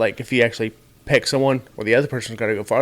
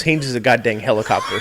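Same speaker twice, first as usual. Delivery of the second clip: laughing joke. Real, not acted. Joking reply, laughing.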